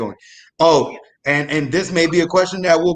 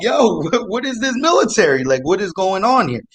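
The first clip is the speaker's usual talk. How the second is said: higher-pitched mock disbelief; retold bewilderment; 5 semitones higher than usual. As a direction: ask it baffled, voice lifted. Retold shock at shaggy soldiers.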